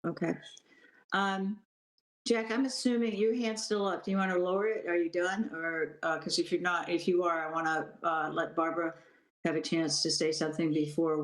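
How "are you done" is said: ordinary delivery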